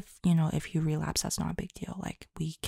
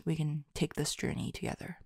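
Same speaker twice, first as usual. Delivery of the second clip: whispered; 7 dB quieter, faster than usual. Real, not acted. Soft encouraging close.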